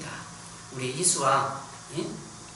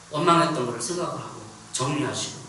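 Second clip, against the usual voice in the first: usual speaking voice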